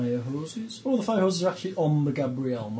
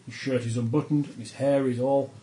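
measured game master narration; scene-setting narration. A narrator's reading. Game master describing the burning dock to players, narrating. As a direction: read out the disaster like a storyteller.

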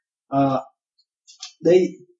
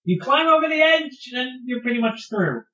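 higher, holding back laughter; suppressed giggles; 9 semitones higher than usual. Real, not acted. Repeated falls told with giggles.

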